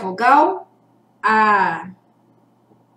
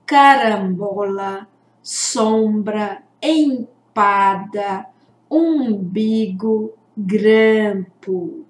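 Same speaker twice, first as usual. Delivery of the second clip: careful word list; 3 semitones lower, slower than usual. Shown as a demonstration. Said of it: "vamos conferir?".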